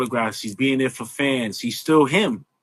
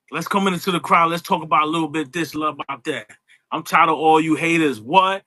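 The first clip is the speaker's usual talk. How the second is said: higher, punchy promo with yelled What; Stone Cold impression; 6 semitones higher than usual. Doing Stone Cold for the host who idolizes him. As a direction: work the crowd like a brash wrestler. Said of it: "It ain't gonna sound like Steve".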